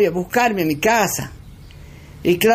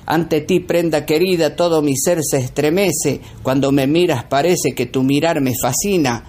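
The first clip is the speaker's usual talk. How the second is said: recitado romántico, grave y pausado; poema recitado. Acted. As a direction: declama como un galán de tango. Recita versos a su señora. (versos de amor declamados con voz más grave)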